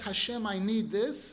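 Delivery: slow, demanding, brash request; chutzpah. Retold or imitated. Person opens prayer to Hashem with a brash, demanding request. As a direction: ask as if owed it. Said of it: "the chutzpah".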